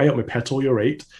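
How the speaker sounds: lightly imitated English Midlands accent. Guest quoting mother, light Midlands accent. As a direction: mimic a Midlands mum's homely greeting. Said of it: "My mother's from the Midlands".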